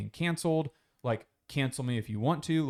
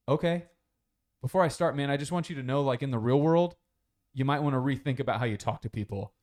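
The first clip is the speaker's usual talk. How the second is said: louder, firm heads-up; warning; 2 semitones higher, 3 dB louder than usual. Retold or imitated. Andrew warning the guy to rethink his tone, louder. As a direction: lecture him with a firm warning. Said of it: "and he goes".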